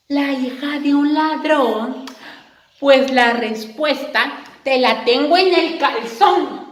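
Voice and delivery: réplica de niña descarada; princesa burlona. Acted. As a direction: contesta con descaro. (princesa responde con burla)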